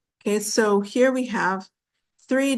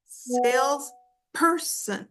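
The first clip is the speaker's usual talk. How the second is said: "salesperson" slowly broken up, SALES, per-son; stress on first syllable; 3 semitones higher, slower than usual. Shown as a demonstration. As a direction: draw out SALES in "salesperson", pause before person. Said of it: "is stronger".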